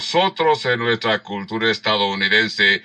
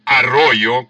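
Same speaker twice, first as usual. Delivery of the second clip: slow louder "Dime arroyo"; mock test challenge; 3 semitones higher, 5 dB louder, much slower than usual. Preacher playing the examiner, slow challenging command. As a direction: test them, slowly. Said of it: "si te dicen".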